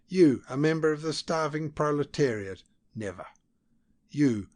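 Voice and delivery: loud, rising scorn, harder on each question; contemptuous scolding. A narrator's reading. Diplomat berating the flabby spy, loud contemptuous scolding. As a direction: tear into him with sneering questions.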